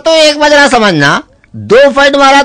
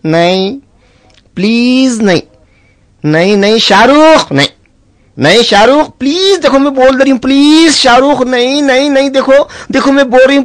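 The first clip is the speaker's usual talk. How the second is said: sleep-talking wife. Retold or imitated. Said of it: "नींद में बोल रही".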